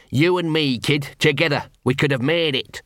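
hammed-up martyr wailing after them; sarcastic shout. Gaspode calls after the fleeing Angua, sarcastic and self-pitying. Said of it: "he shouted".

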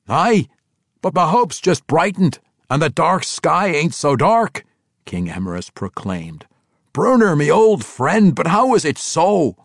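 a dwarf king refusing to believe, high and loud. Acted. King Emrys recalling young Arar, stunned dwarf voice. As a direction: push back in a rough dwarf brogue.

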